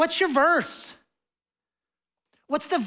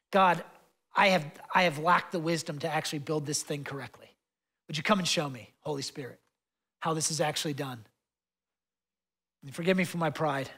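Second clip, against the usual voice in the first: humble prayer; 6 semitones lower, 5 dB quieter than usual. Retold or imitated. Voices his own humble prayer.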